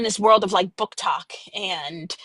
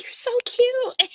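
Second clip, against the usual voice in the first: cooing; 13 semitones higher, slower than usual. Retold or imitated. Gushing reply to her daughter's idea.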